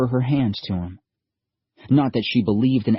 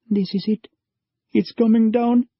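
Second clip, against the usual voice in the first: higher, louder urgent warning; old stranger urging haste as the floor shakes; urgent old man; 12 semitones higher, 4 dB louder than usual. A narrator's reading. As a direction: hurry them along.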